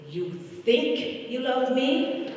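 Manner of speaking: high, slow, drawn-out playful question; uncle's teasing question. Retold or imitated. Grieving niece voicing her uncle's slow teasing question. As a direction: tease her gently, stretching each word. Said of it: "And he would say".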